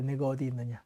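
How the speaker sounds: soft, tender, grieving call; a pained father calling gently; sorrowful God. Acted. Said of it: "마음이 안타까운 것입니다".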